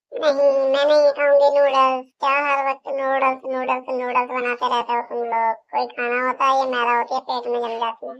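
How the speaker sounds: loud, annoyed complaint that builds down to grumbling; angry refusal. Acted. Sister-in-law scolds the family about noodles, loud annoyed complaint.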